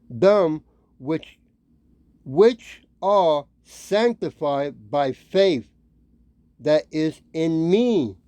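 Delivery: slow, deliberate Bible reading; scripture reading. Acted. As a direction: read the verse slowly, phrase by phrase. Reads scripture aloud.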